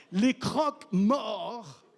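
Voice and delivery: slow, laughing over the word; amused drawn-out. Real, not acted. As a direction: savor the word through a laugh. Joking about the word.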